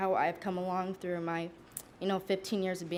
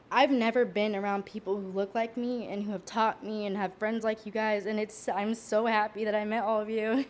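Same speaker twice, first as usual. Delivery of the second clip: holding back sobs. Real, not acted. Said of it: "sorry if I get emotional".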